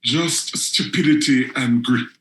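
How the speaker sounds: measured spoken-word recital, grave and deliberate; poetry reading. Acted. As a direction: let each image land before moving on. Reads poem Our Sweet Tooth.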